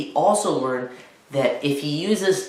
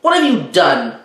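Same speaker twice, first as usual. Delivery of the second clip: louder, slow, stern reproach; upset mother; 4 semitones higher, 4 dB louder, slower than usual. Acted. Mother scolds Spencer for the messy pile, louder and slow. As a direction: spell out the broken deal slowly. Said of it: "she screamed".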